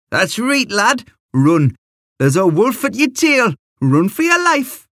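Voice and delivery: very high-pitched mock yell from an old man; yelled encouragement. A narrator's reading. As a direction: urge the runner on, pitch soaring. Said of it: "he'd yell".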